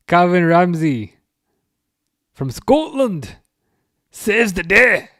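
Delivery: high, loud announcement of a hero; mock-epic play-by-play cry; hammed-up commentary. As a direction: proclaim it with drawn-out relish. Hammed-up live commentary of a save.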